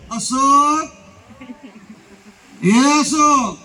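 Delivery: shorter, sharper call of the name; changed married tone. Retold or imitated. Wife after marriage calling husband, plainer tone. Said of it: "set tone બદલાઈ જાય".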